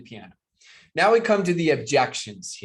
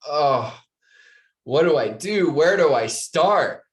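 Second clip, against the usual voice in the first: overwhelmed panic; 2 semitones higher, 6 dB louder, slower than usual. Retold or imitated. Overwhelmed attendee voiced.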